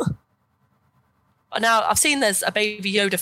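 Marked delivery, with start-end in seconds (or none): 0.0-0.2 very high, anguished wail; hammed-up crying shriek; reenacted scream. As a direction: scream it like you are inconsolable. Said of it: "I was screaming the whole way through".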